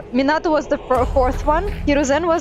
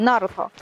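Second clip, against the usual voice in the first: "Naruto" with the first syllable stressed. Shown as a demonstration. Checking the right form with a friend, "Naruto" stressed on the first syllable. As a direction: land firmly on the "Na" of "Naruto". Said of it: "So it's the first one".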